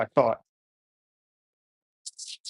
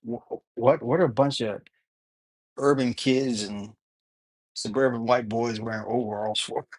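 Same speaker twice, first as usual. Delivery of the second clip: words round a toothbrush, mouth foamy; brushing teeth while talking. Real, not acted. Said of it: "Sorry, I'm brushing my teeth".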